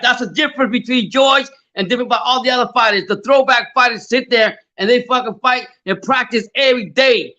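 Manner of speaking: worked-up praise. Real, not acted. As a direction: preach it like you're proud of him. Heated praise of George's work ethic.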